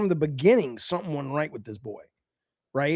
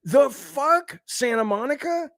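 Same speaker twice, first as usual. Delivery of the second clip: raised, exasperated tirade at the studio; furious rant; 7 semitones higher than usual. Real, not acted. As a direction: tear into the studio in disbelief. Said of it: "I am furious when I'm just remembering it".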